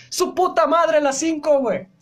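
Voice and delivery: high, loud surprised swear; shocked outburst. Real, not acted. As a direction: blurt it out in shock. Shocked at the time.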